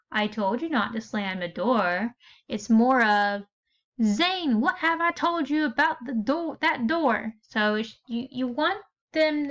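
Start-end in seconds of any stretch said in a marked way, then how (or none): 4.0-7.3 scolding, higher and insistent; exasperated mom calling her son out; aggravated mom. Shown as a demonstration. Teacher showing students an aggravated mom scolding. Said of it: "if mom is aggravated".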